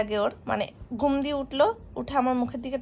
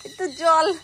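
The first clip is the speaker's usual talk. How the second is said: put-on toddler's mangled request; 4 dB louder, slower than usual. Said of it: "বলে".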